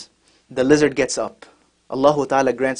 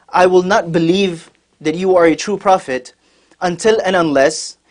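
slow, raised, emphatic refusal; defiant challenge; 4 semitones higher, slower than usual. Retold or imitated. Bedouin challenges the Prophet before everyone, defiant. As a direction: lay down a firm challenge, word by word.

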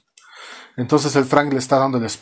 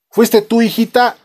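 put-on raised, louder questioning of a child; mock stern father; 9 semitones higher, 5 dB louder than usual. Father asks his little girl if it was her, mock stern. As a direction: play a dad interrogating, lightly put on.

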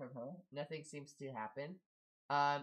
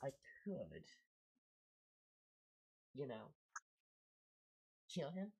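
soft, quiet snake lady threat; lightly voiced snake lady, softer; menacing snake lady; 7 dB quieter than usual. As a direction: purr the threat quietly, unhurried. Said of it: "She looks at you and says".

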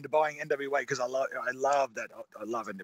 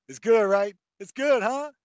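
put-on eager child, pitched high; imitating a rapper; 6 semitones higher, 6 dB louder than usual. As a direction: press for approval like an excited kid. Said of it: "like an eager child next to me".

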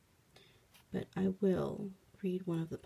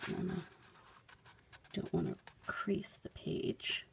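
very soft, near-whispered aside; hushed aside; 7 dB quieter than usual. Real, not acted. Careful with the old book's page, hushed. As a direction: murmur it while concentrating on a delicate task.

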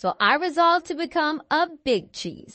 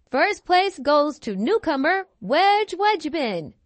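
announcer voice; 3 semitones higher than usual. Retold or imitated. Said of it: "a thunderous voice making the dreaded announcement".

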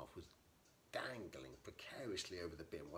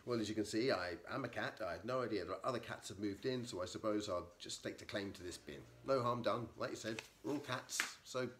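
a lightly voiced, louder blustering gent; shifty intruder cat; 3 semitones higher, 8 dB louder than usual. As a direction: talk your way out, a touch shifty. Intruder's flustered speech.

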